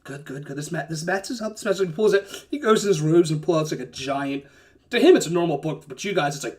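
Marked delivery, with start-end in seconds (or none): 0.0-1.9 mumbling to himself. Acted. Giant checking his notes, mumbling to himself. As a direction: mutter it privately under your breath. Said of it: "starts mumbling to himself".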